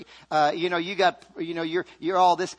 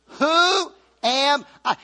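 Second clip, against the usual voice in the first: call and response; 7 semitones higher, 5 dB louder, much slower than usual. Shown as a demonstration. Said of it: "Say that with me".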